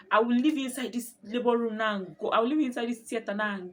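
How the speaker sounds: threatening nurse. Retold or imitated. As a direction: threaten her like a fed-up nurse. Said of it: "The other one will be like".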